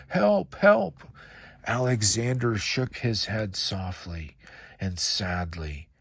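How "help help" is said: high panicked yell for help; frightened shout. Acted. Man fleeing the alligator in terror, yelling high. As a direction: scream it as you flee.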